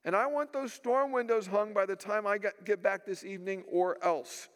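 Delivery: imitating a gruff, commanding father. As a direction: lay down the law like a stern father. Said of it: "in this really gruff voice".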